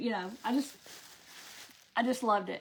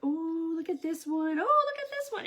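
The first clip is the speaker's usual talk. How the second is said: rising, higher excitement; excited shopper; 5 semitones higher than usual. Retold or imitated. Shopper spotting fabric on the rack, rising excitement. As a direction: spot one bolt, then another, thrilled. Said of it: "and you're like".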